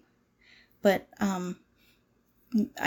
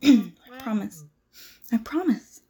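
crying; 3 semitones lower, slower than usual. Acted. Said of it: "emotional for no reason".

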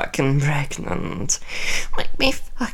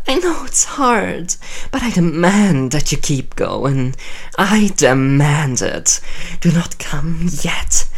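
louder, fast, imperious scolding; commanding; 3 dB louder than usual. Acted. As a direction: command him like a queen. Queen forbids him to finish.

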